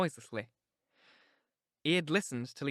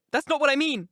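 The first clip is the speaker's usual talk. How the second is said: louder and higher, what stressed, falling; Catherine insisting; 11 semitones higher, 8 dB louder than usual. A narrator's reading. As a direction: press the point home. Catherine voiced in reading.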